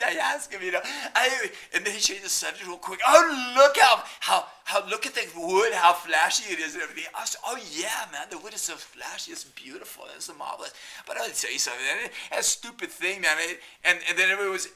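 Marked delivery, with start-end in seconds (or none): 3.1-7.0 mock posh salesman. Salesman dodging. 7.5-10.7 sarcastic whisper. Retold or imitated. Sarcastic reply.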